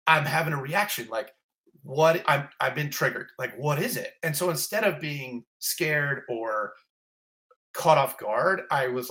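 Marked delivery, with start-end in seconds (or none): 0.1-4.1 startled realization. Retold or imitated. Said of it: "and I went".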